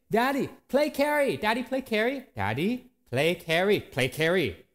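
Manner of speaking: put-on high excited toddler pleading, Daddy play carry; toddler yelling. Preacher imitating his two-year-old daughter begging him, high and eager. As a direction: plead like an eager little girl tugging at you. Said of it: "she's been yelling constantly".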